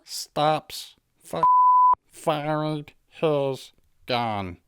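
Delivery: slow mock gunfire beat ending in a shrieked Fuck; mock villain reaction. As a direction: play the dumb henchman's panic.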